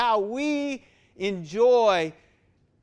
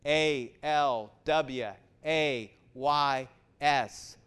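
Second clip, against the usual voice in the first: each letter said slowly, one by one; spelled out slowly; 6 semitones lower, 3 dB quieter, much slower than usual. Shown as a demonstration. Pastor spelling the word for his congregation, slow letters. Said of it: "How do you spell it?".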